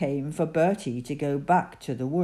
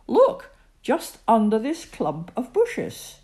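Daddy Bear voice; 6 semitones higher, 5 dB louder than usual. A narrator's reading.

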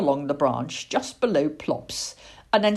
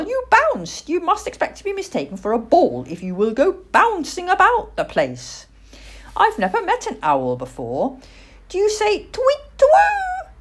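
put-on high, lively child's voice; matter-of-fact little girl; 14 semitones higher, 4 dB louder than usual. Little girl questioning a huffy owl, high and matter-of-fact. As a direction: chatter loftily as a little girl.

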